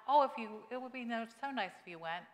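overly sweet wheedling, mocking politeness; mock sweet request. Shown as a demonstration. Pastor mocking a timid invitation, sugary and pleading.

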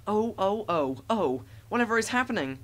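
mock scream of silly, panicking trucks. A narrator's reading.

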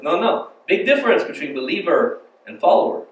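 amateur imitation of an Egyptian accent; bad Egyptian accent. Egyptian man corrects visitor on believer versus follower, bad Egyptian accent. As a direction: correct them in a badly faked Egyptian accent. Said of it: "That's a really bad Egyptian accent".

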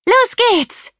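very high, loud, excited launch cry; enthusiastic announcement. A narrator's reading. Rosie launches her invention, announced loud and enthusiastically. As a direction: proclaim it with big excitement. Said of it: "verkündete Rosie begeistert".

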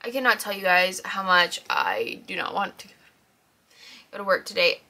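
breathy whisper of dread. Real, not acted. Dreading going to work.

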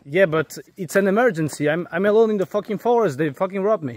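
high, upset emergency plea; frustrated, distressed swearing on the phone; desperate insistence. Real, not acted. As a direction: plead that this is a real emergency.

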